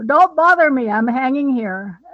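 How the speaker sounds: annoyed snap. Pretend. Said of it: "You know".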